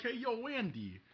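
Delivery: high, called through a window; calling at the window. Retold or imitated. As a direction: call up to the window. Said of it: "I'll be like".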